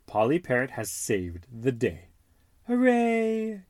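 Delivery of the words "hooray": cheer. Acted. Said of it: "George cheers".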